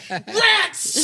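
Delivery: high, laughing mock exclamation of a foiled guard; mock guard cry. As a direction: cry it out like a cartoon guard who just lost. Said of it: "what the guards are gonna say".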